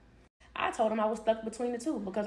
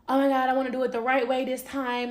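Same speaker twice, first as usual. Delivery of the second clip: imitated excitement, a touch raised; excited; 3 semitones higher, 4 dB louder than usual. Boyfriend hearing of the pregnancy, imitated excitement. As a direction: play his eager excitement lightly. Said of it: "He was excited, like".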